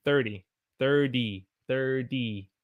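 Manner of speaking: "thirty" with a soft D, "thirdy"; American thirty. Shown as a demonstration. Teacher showing American "thirty". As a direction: flap the T in "thirty". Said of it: "We don't normally say thirty".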